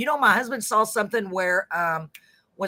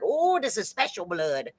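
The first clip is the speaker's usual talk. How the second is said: imitated TikTok lady; 4 dB quieter than usual. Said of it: "She's like".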